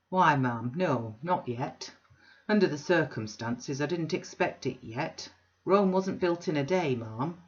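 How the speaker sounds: a loud, bluff self-made man; blustering Bounderby. Acted. Bounderby booming an invitation to Mrs Sparsit. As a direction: boom the invitation like a braggart host.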